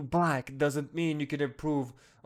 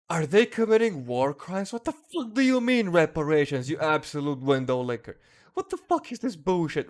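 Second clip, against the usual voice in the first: furious shout; 3 semitones higher, 4 dB louder than usual. Real, not acted. Ranting at the demand letter, furious shouted outrage. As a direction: yell it out, fed up and disgusted.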